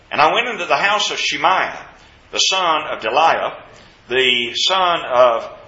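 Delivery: firm, measured Bible reading; scripture reading. Acted. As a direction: read the verse out to the congregation. Reads scripture aloud.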